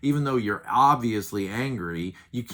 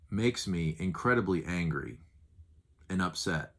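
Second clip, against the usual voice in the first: calm, controlled anger; 3 semitones lower than usual. Shown as a demonstration. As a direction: state you're angry without raising your voice. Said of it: "watch this".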